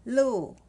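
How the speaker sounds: "Lu" with a sharp falling tone; fourth tone. Shown as a demonstration. Teacher models Lu for pinyin learners, fourth tone. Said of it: "L U with fourth tone".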